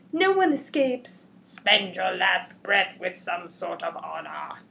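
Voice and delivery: lightly hammed-up stern agent; mock agent threat. Secret Service guy threatening the hero, mock menace. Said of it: "and then he goes".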